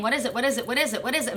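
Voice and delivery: retold pestering, question after question; insistent. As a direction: keep pressing without a gap. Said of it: "I had to keep saying".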